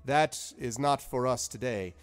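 high, loud, genial wizard voice; lilting, high wizard Zephyros; cheery old wizard. Acted. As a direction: play the jovial wizard host. Wizard voice again.

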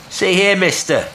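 loud, high address; calling out firmly. A narrator's reading. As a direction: challenge someone out on the water. Will hailing the stranger.

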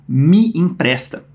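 slow, deliberate imperative; unhurried teacher demo. Shown as a demonstration. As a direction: spell out the request slowly. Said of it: "ele tá dizendo".

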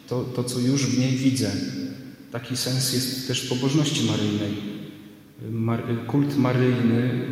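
sermon recorded with church echo; preaching in a reverberant church; church reverb. Real, not acted. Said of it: "nagrał się też pogłos z kościoła". (pogłos kościelny)

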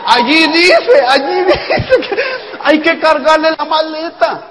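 high, loud, drawn-out exclamation; emphatic exclaiming. Real, not acted. Speaker hammering home the suitcase rule to an audience, emphatic exclaiming. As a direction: call it out to the room, pitched right up.

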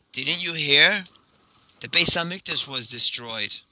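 understated grief, falling at the end; mournful reply. Acted. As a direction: break sad news with restrained sorrow. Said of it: "he begins crying".

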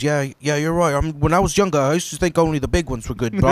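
retold British mate confiding; British impression cracking into laughter at the end; British accent. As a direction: imitate a British pal explaining himself. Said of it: "The British guy".

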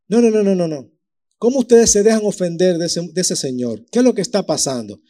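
put-on a boy who won't back down, raising his voice; outraged young David. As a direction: cry out no no no like an indignant youth. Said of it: "David protests to brother".

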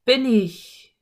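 drawn-out echo, still loud; distant echo. A narrator's reading. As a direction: echo the call back from afar. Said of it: "ertönte eine entfernte Stimme".

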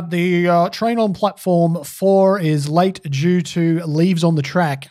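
slow, deliberate tannoy announcement; station announcer. Retold or imitated. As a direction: read it out like a platform loudspeaker. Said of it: "this announcement comes over the loudspeaker".

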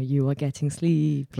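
a hint of lulling someone into sleep; hypnotist. Showing how headphones hypnotize you, in a light hypnotist voice. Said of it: "hypnotizing yourself".

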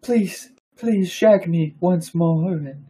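high, drawn-out melodramatic begging; mock pleading. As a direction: beg slowly like a swooning lover. Friend joins mock romantic plea.

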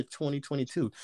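ordinary talk, nothing marked

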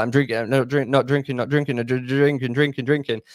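rushed chant, words blurring together; speeding up. Shown as a demonstration. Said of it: "you say it faster and faster in your head".

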